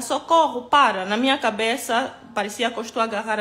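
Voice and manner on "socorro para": louder, higher mock shout of socorro; retold cry for help. Woman clinging to the truck, yelling for help in a mock shout. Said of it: "começo a gritar".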